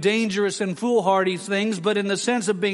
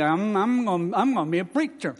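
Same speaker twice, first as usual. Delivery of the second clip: lightly imitated thick-tongued, halting speech; Dutchy voice. Student telling people what he is studying, mild Dutchy voice. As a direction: stumble slightly, imitating a speech impediment. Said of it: "his Dutchy voice".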